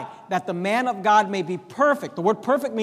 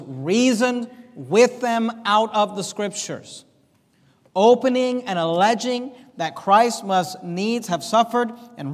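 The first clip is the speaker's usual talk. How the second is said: slow, solemn reading of the verse; slow scripture reading; slower than usual. Shown as a demonstration. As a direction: read the scripture slowly and deliberately. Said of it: "Bible says".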